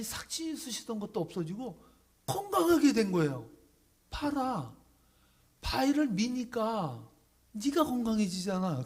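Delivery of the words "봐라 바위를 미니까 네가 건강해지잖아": high, loud, slow declaration; God's voice. Acted. God telling the healed man, high and loud. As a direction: proclaim it, God pointing out the lesson.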